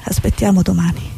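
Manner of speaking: grave, measured war report; news dispatch. Acted. Correspondent reporting deaths in Mogadishu, grave and paused.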